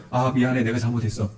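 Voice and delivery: a quiet, giving-in apology; soft apology. Acted. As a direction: say sorry gently, backing down. Acted spouse apologizing softly.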